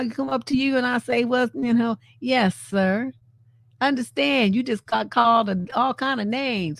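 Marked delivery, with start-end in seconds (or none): 1.2-3.1 disdainful sir. Shown as a demonstration. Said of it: "when I say sir, I don't mean it in a polite way".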